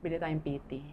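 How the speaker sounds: wife murmuring a late period to her husband; hushed confiding. Retold or imitated. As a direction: tell your husband softly so no one hears. Wife quietly telling husband.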